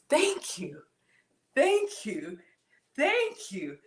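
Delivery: breathy whispered thank you; awed whisper. Real, not acted. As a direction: whisper your gratitude.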